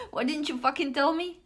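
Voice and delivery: laughing. Acted. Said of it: "He shouted".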